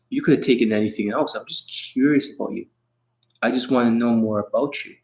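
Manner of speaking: caring tonality. Shown as a demonstration. Pickup coach to a girl, caring tonality. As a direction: draw her out gently and kindly. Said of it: "it sounds like it's a very caring tonality".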